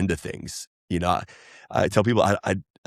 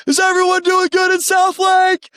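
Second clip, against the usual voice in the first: higher and louder, a caring mock Jesus; 6 dB louder than usual. Telling Will how Jesus would check on South Lake, mock caring voice. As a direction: play Jesus checking on everyone, big and bright.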